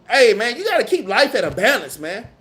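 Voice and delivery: ordinary talk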